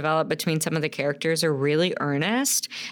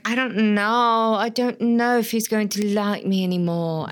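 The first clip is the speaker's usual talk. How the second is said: lightly voiced Maid Marian; 3 semitones higher than usual. Host mimicking Marian's worry over Robin, lightly voiced. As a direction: lightly imitate a doubting maiden. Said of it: "and she's like".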